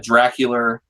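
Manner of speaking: lightly imitated Philadelphia accent; mother's Philadelphia accent. Son quoting how his mom said it, in a light Philadelphia accent. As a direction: give it a Philly r at the end. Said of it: "said with her Philadelphian accent".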